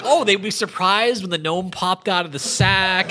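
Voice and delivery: slow, laughing imitation of the player; a laughing, high mock of the player; laughing quote. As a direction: giggle your way through his reasoning.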